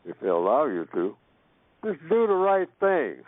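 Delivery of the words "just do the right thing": called out. Retold or imitated. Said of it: "just shout out if you have to".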